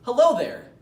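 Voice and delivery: high, loud, polite hello; proper greeting. Shown as a demonstration. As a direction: greet the audition panel properly. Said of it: "use a proper greeting".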